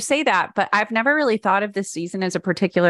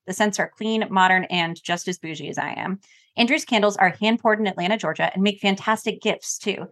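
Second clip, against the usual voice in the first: polished podcast sponsor read. Real, not acted. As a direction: deliver a scripted host endorsement. Reads a sponsor ad.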